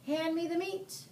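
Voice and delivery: captain demanding meat; pirate captain. A narrator's reading. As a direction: bark it with a mouthful.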